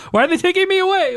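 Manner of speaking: high, fast panicky plea; mock panic. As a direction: play it as hammed-up terror. Acts being taken away.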